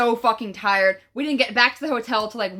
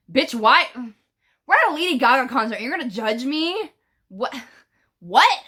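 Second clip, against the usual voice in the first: indignant. Retold or imitated. Retelling indignation at being judged.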